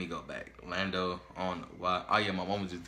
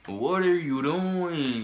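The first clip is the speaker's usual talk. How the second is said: slow exasperated disbelief; 3 semitones higher, 4 dB louder, much slower than usual. Real, not acted. Exasperated at Lando's defense.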